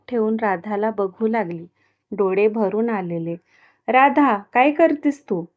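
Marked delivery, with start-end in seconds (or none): 3.9-5.4 a touch of angry, higher rebuke. Acted. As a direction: grandmother scolding mildly raised. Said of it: "आजी चिडून बोलल्या".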